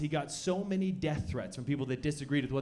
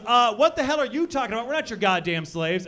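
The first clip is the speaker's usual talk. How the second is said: loud, high indignant woman; angry woman; 5 semitones higher, 6 dB louder than usual. Retold or imitated. Woman at the show snaps at the gay guy, loud and indignant. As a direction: snap back offended. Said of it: "a woman sitting near him just goes".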